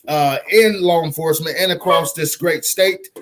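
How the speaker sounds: high-pitched rallying plug; rally listeners with high, rowdy energy. Real, not acted. Host urging listeners to vote for his guest, rowdy. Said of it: "I like to get a little bit, uh, rowdy".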